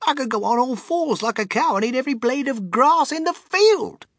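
high, gleeful grandpa exclamation; grinning delight. A narrator's reading. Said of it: "grinning with delight".

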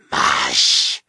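low, loud shout; cried command. A narrator's reading. Bearded man cracking his whip at eagles, shouted command. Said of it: "cried the man with the beard".

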